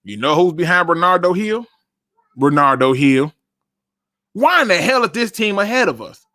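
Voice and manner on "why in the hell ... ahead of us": exasperated. Real, not acted. Exasperated question.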